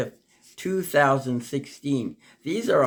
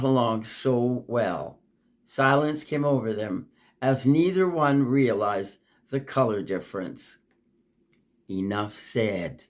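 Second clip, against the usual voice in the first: poem reading. Acted. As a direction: tell the parable gently, let the ending sink. Reads a parable poem.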